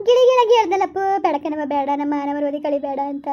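comic tearful wailing, loudest at the start; wailing lament. Acted. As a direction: wail to the heavens over the family shame. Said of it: "ಯಾಕ್ ಹಿಂಗ್ ಅಳ್ತಾ ಕುಂತಿದ್ರಿ?". (ಗೋಳಾಡುತ್ತಾ ಅಳುವ ಧ್ವನಿ)

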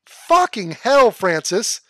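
loud, drawn-out groan of disbelief; slow, loud exasperated curse. Acted. Scolding Francis over his looks, slow exasperated curse.

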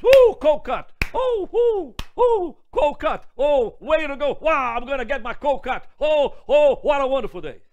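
high, loud overjoyed whooping; ecstatic customer. Retold or imitated. Man in the supermarket overjoyed at his order, loud and high. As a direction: shout with delight over the sandwich. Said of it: "And the black man says".

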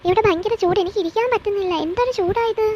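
high, rising whine about the heat; whiny complaint. Acted. Spoilt wife to husband about the heat, high whining.

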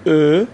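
ا as a loud, held German ö; rounded o-umlaut. Shown as a demonstration. Teacher demonstrates o-umlaut alone, ا as loud rounded ö. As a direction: say ا through rounded lips, loud and drawn out.

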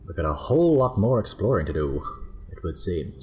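put-on old Hollywood transatlantic accent; glamorous old Hollywood star voice. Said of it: "enough of the transatlantic accent".

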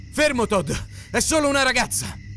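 voce acuta, urgente; grido per fermarlo. Acted. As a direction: gridare per bloccare un compagno. Giovane ferma l'uomo con la spranga. (grido urgente e acuto)

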